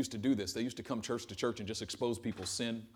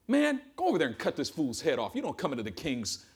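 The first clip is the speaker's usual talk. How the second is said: mock royal rage; 2 semitones higher, 6 dB louder than usual. Imagined arrogant king.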